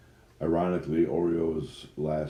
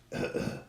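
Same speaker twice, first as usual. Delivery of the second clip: fake cough; 4 dB quieter than usual. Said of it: "Put on your best sick voice".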